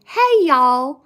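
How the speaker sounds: loud, high-pitched Southern greeting; Paula Deen. Retold or imitated. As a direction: holler it out like a Southern TV cook. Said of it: "like, Paula Deen on Food Network".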